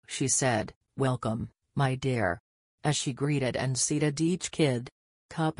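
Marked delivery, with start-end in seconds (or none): 1.0-2.4 sincere. Acted. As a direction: sound kind and sincere. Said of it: "Sounding so sincere".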